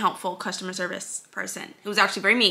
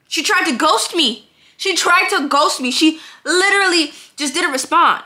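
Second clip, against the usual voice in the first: outraged disbelief; 7 semitones higher, 4 dB louder than usual. Real, not acted. Outraged at being ignored.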